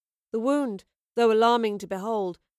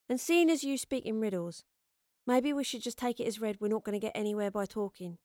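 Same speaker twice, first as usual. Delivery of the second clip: lightly voiced character, blunt and quick to finish; guarded, trailing softer; blunt, guarded traveller; 3 dB quieter, faster than usual. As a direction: wave the conversation away. Voices Astrid in the story.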